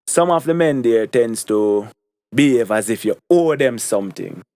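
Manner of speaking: "Some" weighted at the start; emphatic "Some of the men there"; stress on some. Real, not acted. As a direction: lean on "Some" before "of the men". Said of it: "emphasize on the word some".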